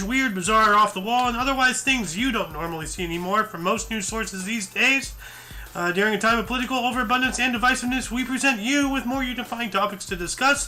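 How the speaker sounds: upbeat-paced host's opening read; slightly lifted presenter voice; show intro. Acted. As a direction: deliver a rehearsed news show opener. Recites the show's opening.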